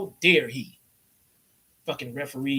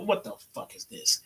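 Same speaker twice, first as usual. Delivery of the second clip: mock angry J R. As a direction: vent like a cheated commentator. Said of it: "He's like".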